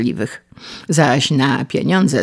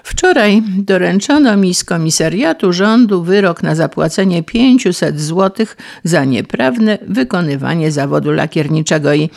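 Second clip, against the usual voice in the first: raised-pitch, miserable complaint; Paleta moaning; 3 semitones higher, 3 dB louder than usual. Acted. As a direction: wail the bad news out. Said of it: "zajęczał nieszczęsny Paleta". (żałosne, zawodzące narzekanie)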